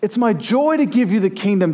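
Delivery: a delighted Jesus promising the kingdom; Jesus, generous. Acted. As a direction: offer it gladly as Jesus. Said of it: "Jesus will say later".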